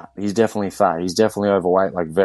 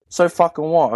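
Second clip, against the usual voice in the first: higher, sharp challenge, a retold yell; mock coach yell; 9 semitones higher than usual. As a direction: bark it back at his excuse. Coach confronting client mid-workout.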